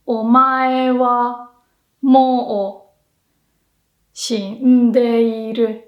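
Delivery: slow, menacing "Omae wa mou shindeiru"; dramatic anime line. Shown as a demonstration. Teacher quoting a famous anime line for pitch. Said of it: "So remember".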